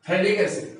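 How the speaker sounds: "थैलिक" said with a plain th, no f sound; silent PH. Shown as a demonstration. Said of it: "पीएच जो है वो silent है". ("थैलिक" में पीएच silent, फ़ की आवाज़ नहीं)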